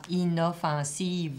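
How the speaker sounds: "inoffensive" stretched out syllable by syllable; syllables drawn out. Shown as a demonstration. Teacher asks for a syllable count, "inoffensive" drawn out in syllables. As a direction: sound out every syllable of "inoffensive", final e included. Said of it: "il y a combien de syllabes dans".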